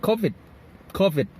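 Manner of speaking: "covid" with CO stressed and the ending falling; stress on first syllable. Shown as a demonstration. Teacher demonstrating covid for learners, stress on the first syllable. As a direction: hit CO in "covid", keep the second syllable light. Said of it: "มันจะมีเสียง stress ที่ตัวแรกครับ co".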